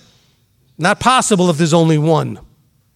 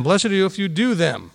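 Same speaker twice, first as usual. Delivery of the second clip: quieter echo, "do" still stressed; softer repeat; 6 dB quieter than usual. Shown as a demonstration. Teacher softly repeating the verse to the class. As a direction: repeat it softly, letting "do" land.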